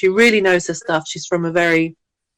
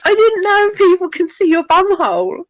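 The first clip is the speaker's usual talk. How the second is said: higher, mock disbelief; shocked friend; 13 semitones higher, 4 dB louder than usual. Friend realising for the first time, hammed-up shock. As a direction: sound genuinely stunned, but play it for laughs.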